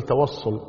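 توصل said with a heavy emphatic Ṣ; التوصل بالصاد; tawassul with emphatic s. Shown as a demonstration. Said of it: "يعني سين صاد".

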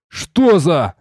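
mildly irritated exclamation; a touch of anger; angry exhale. A narrator's reading. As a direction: breathe it out with annoyance. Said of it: "Зло выдохнул я".

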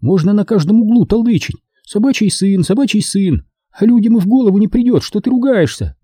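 high-pitched indignant tipsy woman; Caroline, tipsy and indignant. Acted. Tipsy woman complaining about being scolded, high and indignant. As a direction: grumble in a high character voice, tipsy.

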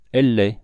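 loud, decisive "Elle l'est"; "Elle l'est" stated emphatically, no doubt allowed; firm insistence. A narrator's reading. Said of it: "reprit nettement la fillette".

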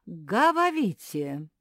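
loud lecturing professor with r and l swapped for v; speech-impaired professor. A narrator's reading. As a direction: play the muddled academic, v for every r and l.

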